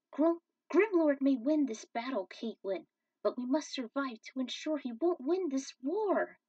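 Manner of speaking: calm her but hold firm; firm resolve. Acted.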